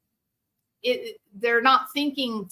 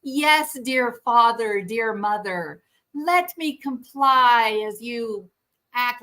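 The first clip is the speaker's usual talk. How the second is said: mock meek child; 2 semitones higher than usual. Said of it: "expect them to go".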